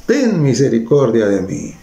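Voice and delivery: half-shouted plea for mercy; mild acted cry. Blind man calling to Jesus for mercy, mild acted cry. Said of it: "comenzó a gritar".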